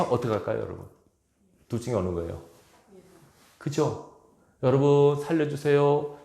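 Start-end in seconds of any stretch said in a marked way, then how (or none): 4.6-6.2 dignified plea. Shown as a demonstration. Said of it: "점잖게 체면차리면서 그 요청하잖아요".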